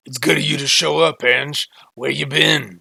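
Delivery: loud, rough, gruff growl. Game master voicing Frankenstein greeting Ange: gruff Frankenstein voice. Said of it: "in his gruff voice".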